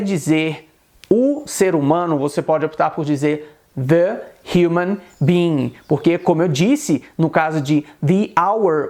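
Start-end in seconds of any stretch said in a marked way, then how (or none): 3.8-5.7 "the human being" with "the" as "thuh"; short schwa in "the", then a breathed H in "human"; "the" before sounded H. Shown as a demonstration. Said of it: "ele não é mudo".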